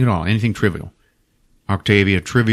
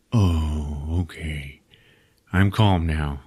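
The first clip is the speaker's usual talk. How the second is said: calmed merman; 6 semitones lower, 4 dB quieter, much slower than usual. Retold or imitated. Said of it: "he's like".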